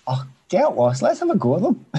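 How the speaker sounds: loud, high, cheeky rallying cry; rallying shout. Retold or imitated. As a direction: fire up the lads. Players mocking manager's worries.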